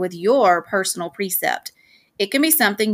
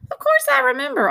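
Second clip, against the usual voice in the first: gentle, tender reassurance; softly. A narrator's reading. Dad soothing his upset son, softly. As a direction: answer tenderly, with understated regret. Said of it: "he said softly".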